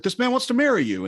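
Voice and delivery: mock exclaiming to a daughter; retold incredulous announcement. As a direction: act out a flabbergasted father breaking news.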